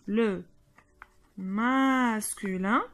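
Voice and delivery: masculin drawn out slowly, syllable by syllable; slow model word. Shown as a demonstration. Teacher modelling a word for pupils, slowly. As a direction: stretch out "masculin" for the class. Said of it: "teacher models word slowly".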